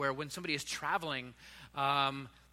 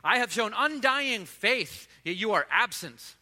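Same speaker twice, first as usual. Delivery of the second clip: angry shout; 3 semitones higher, 4 dB louder, slower than usual. Acted. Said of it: "he shouted out to God in anger".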